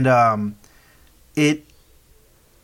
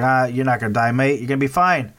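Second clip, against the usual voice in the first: put-on Australian accent; faster than usual. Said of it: "How did they become Australian?".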